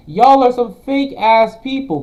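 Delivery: loud, furious yell at the critics; angry shout. Real, not acted. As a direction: blast them, full volume. Streamer ranting at critics.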